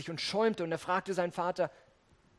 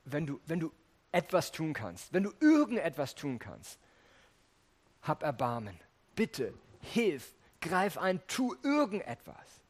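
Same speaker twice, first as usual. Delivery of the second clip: desperate plea. Retold or imitated. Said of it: "bittet er Jesus und sagt".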